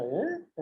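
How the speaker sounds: quick upward questioning grunt; little "eh?" swooping up in pitch; a short, querying vocal upturn; rising questioning "eh". Shown as a demonstration. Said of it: "just make your voice go up".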